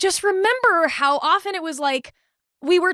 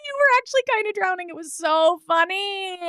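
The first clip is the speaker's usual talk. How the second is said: higher, fast, laughing taunt; mocking laughter; 5 semitones higher than usual. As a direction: gloat as if it were a joke. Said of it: "she was like".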